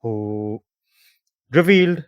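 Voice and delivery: measured storytelling with pauses for effect; game master's recap. Real, not acted. Host recaps the adventure for players, narrating style. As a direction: narrate the story so far, leaning on key words.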